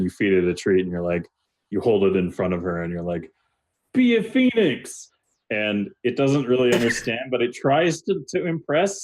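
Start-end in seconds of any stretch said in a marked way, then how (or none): 3.9-5.1 high, drawn-out coaxing cry to a dog; coaxing shout. Retold or imitated. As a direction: urge the dog like a pet trainer. Owner coaxing dog to transform.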